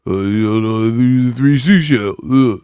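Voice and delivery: mock incoherent mumbling with grunts; put-on babble voice. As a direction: lose the thread in a silly put-on voice. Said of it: "I don't talk like that for real".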